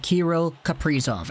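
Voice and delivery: Kaprizov with the stress on "pri"; stress on second syllable. Shown as a demonstration. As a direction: say Kaprizov as ka-PREE-zov. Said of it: "put the emphasis on the pre".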